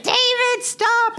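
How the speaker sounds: high, loud mock scold; wife scolding. Wife telling David to stop vacuuming, high loud mock scold. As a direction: snap at him like an irritated wife. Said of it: "she's like".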